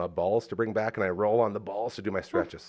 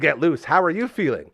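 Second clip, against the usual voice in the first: teasing; 6 semitones higher, 6 dB louder than usual. Retold or imitated. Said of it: "I responded with".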